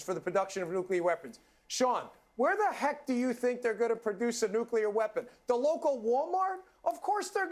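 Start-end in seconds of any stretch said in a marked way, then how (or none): 5.5-7.5 mocking rhetorical question; sarcastic. Real, not acted. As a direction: scoff at the idea.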